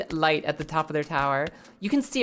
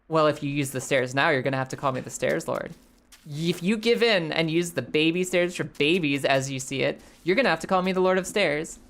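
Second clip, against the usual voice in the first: lower, lightly voiced smug old guide; Jim's smug voice; 3 semitones lower than usual. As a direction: tease him from low in the voice. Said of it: "And Jim's like".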